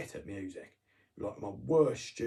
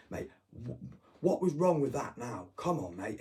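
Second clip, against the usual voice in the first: higher, louder acted-out objection; indignant protest; 3 semitones higher, 5 dB louder than usual. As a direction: argue back like you've been wronged. Acts out arguing back at referee.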